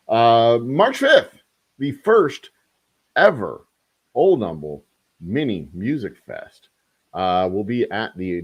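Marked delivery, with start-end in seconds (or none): 0.1-6.7 much higher and louder excited reveal; much higher, louder hype for the fest date; big announcement. Acted. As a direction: announce it like a ringmaster.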